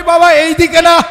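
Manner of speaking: put-on high, loud boy's call to his father; child calling out. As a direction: stop him with a loud cry. Son calls to his father. (ছেলে বাবাকে জোরে ডেকে থামাচ্ছে)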